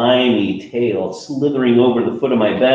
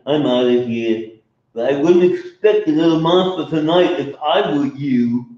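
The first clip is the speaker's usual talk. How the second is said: hurt grumpy monster; 6 semitones higher, 3 dB louder than usual. Acted. Mac grumbles, leaves.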